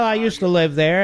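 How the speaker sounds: "used to" leaned on hard; stress on used to. Shown as a demonstration. Host correcting a caller from Montgomery County, hitting "used to". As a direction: land on "used to" to say he moved away. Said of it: "I emphasize the words "used to".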